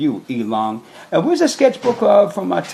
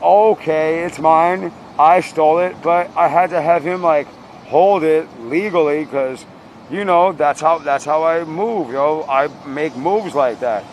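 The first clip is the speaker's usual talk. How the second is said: hip hop swagger. Retold or imitated. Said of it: "the hip hop thing".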